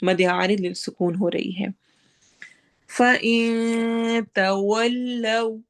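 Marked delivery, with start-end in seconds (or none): 2.9-5.6 tajweed chant; Quranic recitation. Shown as a demonstration. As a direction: recite it, stretching the vowel. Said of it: "ہونٹ گول ہوں گے".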